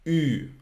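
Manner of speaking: Ü rounded and fronted; German ü sound. Shown as a demonstration. Teacher shows learners the German ü sound. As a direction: say Ü with lips rounded for U, tongue for E. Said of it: "So it's".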